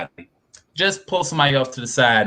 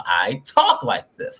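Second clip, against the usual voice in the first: slow demo; 4 semitones higher, slower than usual. Shown as a demonstration.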